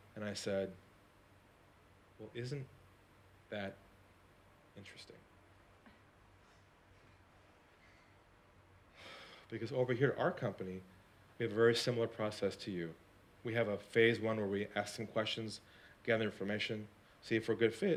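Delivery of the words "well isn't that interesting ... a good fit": lowered voice, speaking lower and quieter. Retelling a reply on a phone call: retelling in a lowered voice. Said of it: "I lowered my voice".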